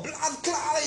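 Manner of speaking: tag. Retold or imitated. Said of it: "y te cagas de risa".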